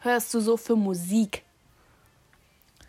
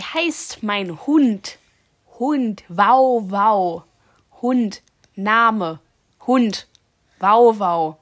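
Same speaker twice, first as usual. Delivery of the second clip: big loud overarticulated words; loud exaggerated mouthing; 6 dB louder, much slower than usual. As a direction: say it loud and slow so she can lip-read. Mouthing words to headphone wearer.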